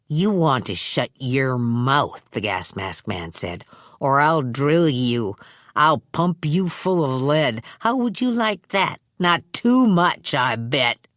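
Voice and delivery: low, slow, gloating threat from a crude thug; menacing thug. Acted. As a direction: drag out every threat, enjoying it. Gas mask man voiced.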